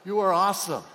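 loud, firm declaration; loud confident "You are awesome"; emphatic affirmation. Shown as a demonstration. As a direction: proclaim it boldly. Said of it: "Don't say it like that".

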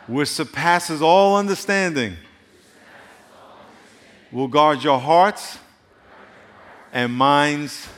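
slow, measured reading of the verse; scripture reading. Acted. Preacher reading Philippians to the congregation, slow and solemn. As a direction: let each phrase land with long pauses.

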